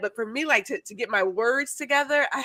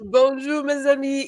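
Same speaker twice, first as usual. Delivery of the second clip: correct French greeting; 4 semitones higher than usual. Shown as a demonstration. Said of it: "did I say it right".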